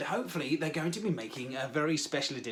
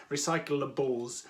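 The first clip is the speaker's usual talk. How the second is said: slow, low "Recyclables", syllable by syllable; careful pronunciation; 5 semitones lower, 4 dB quieter, slower than usual. Shown as a demonstration. Host practising a difficult word, careful pronunciation. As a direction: sound out "Recyclables" slowly and evenly. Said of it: "very difficult word to say".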